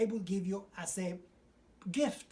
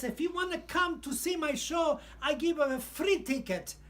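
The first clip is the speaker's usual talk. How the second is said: much higher and louder, eager; excited invitation; 8 semitones higher, 4 dB louder than usual. Retold or imitated. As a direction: invite him like a delighted star. Franchi inviting him to his show.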